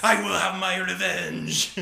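slow scheming cartoon baby voice; Stewie Griffin. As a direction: plot revenge like an evil toddler. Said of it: "he's like Stewie Griffin".

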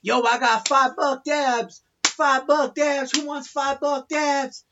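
mock street seller hawking his dabs, slowly; vendor calling out. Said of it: "I hear this guy yell out".

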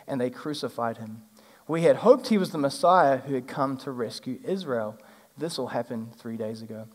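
measured storytelling read-aloud; Bible story reading. Acted. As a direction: read the passage like a storyteller to a congregation.

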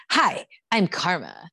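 slow, mock reality-show tagline; jarring tagline. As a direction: mimic a jarring TV intro line. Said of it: "is jarring".

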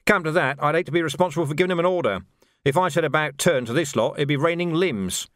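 wry commander. Acted. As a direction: grumble like a reluctant commander. Narrator voices Vimes.

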